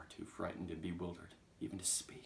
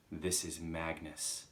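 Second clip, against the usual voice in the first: ominous message; 2 semitones lower, slower than usual. Acted. Chalk announcing itself to Agatha, slow and ominous. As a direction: spell out the name gravely, unhurried. Ghostly message read out slowly.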